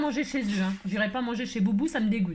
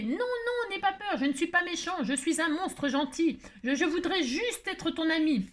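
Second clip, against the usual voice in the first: petit monstre paniqué; 6 semitones higher than usual. Acted. Boubou rassure l'enfant qui hurle.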